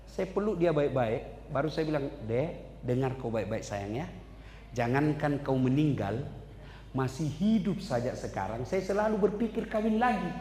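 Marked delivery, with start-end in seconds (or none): 2.2-10.3 tender teasing to wife. Retold or imitated. Teasing wife, tender then joking.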